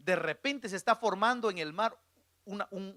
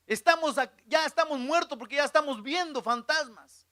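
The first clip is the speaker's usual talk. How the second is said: acted panic; 6 semitones higher, 4 dB louder than usual.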